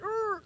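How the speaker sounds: high, soft strained "urgh"; stifled frustrated groan. Retold or imitated. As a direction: squeeze out a small exasperated groan. Retold reaction to bossy host.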